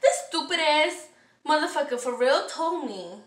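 reliving the upset in an irritated rant; upset venting. Retold or imitated. Customer venting about the associate's remark, upset. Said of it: "I was fucking upset".

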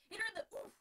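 high, loud, excited cheer; root her on in the brawl. Acted. Alex cheering Dorothy on in the fight, high and loud. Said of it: "Alex cheered".

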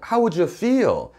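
slow, clearly spaced English; teacher modelling each word slowly; slow clear model phrase. Shown as a demonstration. English teacher modelling the phrase slowly for learners. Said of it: "이렇게만 얘기할 수도 있는데요".

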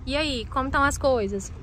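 tinny speakerphone call. Acted. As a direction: voice through a phone speaker. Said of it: "colocar no Viva Voz".

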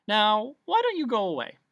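irritated dismissal. A narrator's reading. Bee telling the humbug to leave, irritated. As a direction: send the nuisance packing.

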